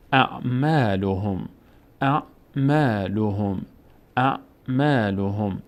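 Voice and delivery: اعمالهم recited slowly, long aa after میم; slow recitation. Shown as a demonstration. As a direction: model اعمالهم, lengthening the alef.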